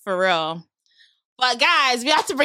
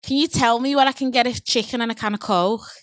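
Scouse accent. Shown as a demonstration. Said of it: "It's Scouts. So I'm gonna go first".

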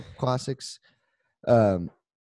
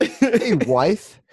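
mock greeting; 3 semitones higher than usual. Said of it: "that's how I acknowledge her".

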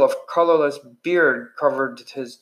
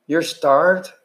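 squeaky indignant; 3 semitones higher than usual. Acted. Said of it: "he nearly squeaked".

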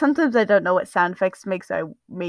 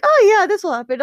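much higher, louder mimicry; mock breezy reply; 12 semitones higher, 6 dB louder than usual. Reader mimics the character's answer, breezy and high. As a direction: parody an airy, carefree answer.

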